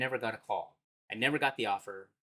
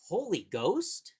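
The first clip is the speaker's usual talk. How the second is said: imitating his daughter; 6 semitones higher, much slower than usual. Daughter quoted in a story.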